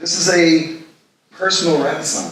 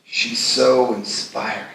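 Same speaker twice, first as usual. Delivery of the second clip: marveling; slower than usual. Acted. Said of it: "shakes his head as he marvels".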